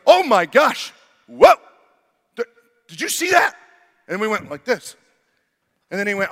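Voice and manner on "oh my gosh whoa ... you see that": much higher, louder, mock alarm; mock startled salesman. Pest salesman pretending to spot a critter, mock alarmed. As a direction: ham up the fake surprise. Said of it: "he goes".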